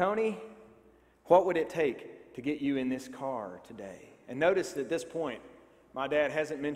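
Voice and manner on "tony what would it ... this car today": put-on East Tennessee salesman accent. Acting out a car price negotiation, in an East Tennessee accent. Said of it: "I'm going for an East Tennessee accent here".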